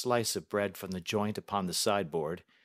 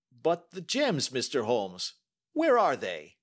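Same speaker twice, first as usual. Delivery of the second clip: slow, higher, worried banker; anxious plea; 4 semitones higher, 5 dB louder than usual. A narrator's reading. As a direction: press him desperately for the gems.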